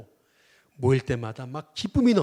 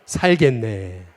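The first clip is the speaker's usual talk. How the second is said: louder and slow, spaced for the crowd to echo; preacher leading a call-and-response; slow call to repeat; 8 dB louder, much slower than usual. Shown as a demonstration. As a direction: declaim it slowly so everyone can repeat it. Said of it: "또 따라해 보겠습니다".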